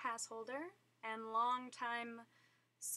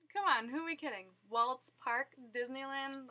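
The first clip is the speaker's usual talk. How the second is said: excited; 2 semitones higher, 7 dB louder than usual. Real, not acted. Emphatic fan enthusiasm.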